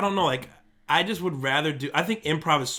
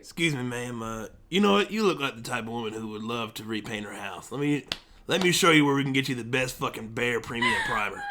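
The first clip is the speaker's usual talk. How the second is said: put-on slightly lowered, accented store-hand voice; bassy hardware worker; 4 semitones lower than usual. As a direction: lightly play a salesman sweet-talking a customer. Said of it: "the bass really helps you".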